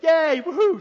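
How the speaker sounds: high, loud, whooping mock joy; mock cheering. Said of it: "one minute he's like".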